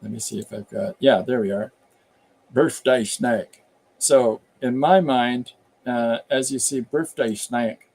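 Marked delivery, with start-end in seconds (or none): 2.5-3.6 drawn-out Appalachian twang; Appalachian accent. Acted. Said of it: "That's the accent that was going through my head". 6.8-7.9 slow Appalachian drawl; Appalachian accent. Acted. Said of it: "That's the accent that was going through my head".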